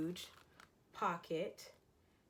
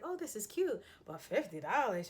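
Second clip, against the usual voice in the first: imitating the cashier, much higher and louder; surprised cashier; 4 semitones higher, 6 dB louder than usual. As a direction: play the shocked cashier at the till. Cashier quoted, surprised at price.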